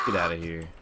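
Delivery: shout. Real, not acted. Yelling at enemy.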